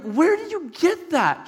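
high, drawn-out incredulous question. Retold or imitated. Parents shocked at daughter's find.

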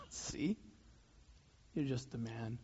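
soft, low sneering jab; religious leaders sneering quietly at Jesus. Retold or imitated. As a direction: scoff it under your breath. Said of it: "they're sneering and they're going".

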